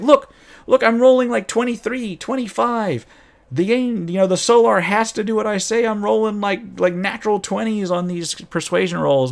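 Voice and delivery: high, eager bragging about rolls; excited insisting. Retold or imitated. Paladin player pressing the GM, excited and high. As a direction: push the GM, thrilled with the dice.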